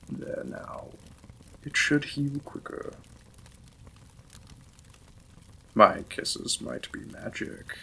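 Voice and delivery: courteous lord apologizing to his new wife; lightly voiced lord's role, close to own voice; Victorian lord. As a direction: play the polite, slightly shy vampire lord.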